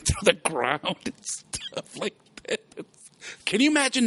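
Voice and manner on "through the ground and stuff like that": whispered aside. Retold or imitated. Retelling cartoon snakes.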